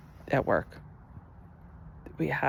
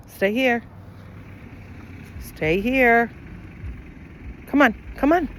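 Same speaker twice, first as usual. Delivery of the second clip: calling the dog; 4 semitones higher than usual. Real, not acted. Urging the dog to come along, calling out. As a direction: coax her along, a bit urgent. Walking dog that won't move.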